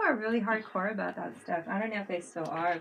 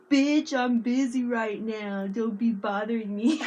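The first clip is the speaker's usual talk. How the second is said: hammed-up busy friend shooing her away; imitating a grumpy friend who won't be bothered; mock annoyed friend; 3 semitones higher, 7 dB louder than usual. Imitating Will brushing her off.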